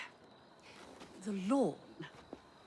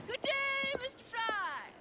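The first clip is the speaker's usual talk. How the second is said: firm dismissal; 12 semitones higher than usual. Acted. Lady repeats her dismissal firmly.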